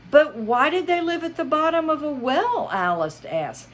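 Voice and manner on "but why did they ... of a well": put-on girl's voice. Alice asks.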